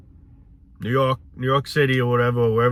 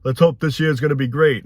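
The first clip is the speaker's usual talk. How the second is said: louder, higher hammed-up cheer; mock optimistic toast; 3 semitones higher, 4 dB louder than usual. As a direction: imitate naive people toasting the new year.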